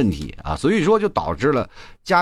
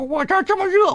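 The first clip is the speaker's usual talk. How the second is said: imitating mom. Mother's reply quoted.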